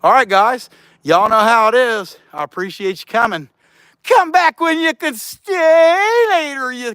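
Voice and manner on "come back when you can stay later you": put-on grumpy old man. Grumpy sign-off to viewers.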